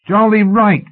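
high, unsteady agreement; nervy, high-pitched backing; voice shaking. A narrator's reading. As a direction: chime in with a shaking voice. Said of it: "his voice shaking".

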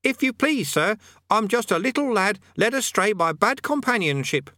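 put-on high, innocent little boy; meek boy. A narrator's reading. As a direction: play the wide-eyed innocent. Eric plays the innocent lad.

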